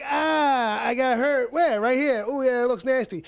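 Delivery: high, loud pained whimpering; hurt guy whining. Retold or imitated. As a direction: whine about a small wound. Acting out an injured guy.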